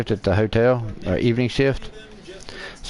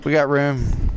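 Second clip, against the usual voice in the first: calling her over; 4 semitones higher than usual. Retold or imitated. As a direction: call her over, pitched up. Retold calling a woman over.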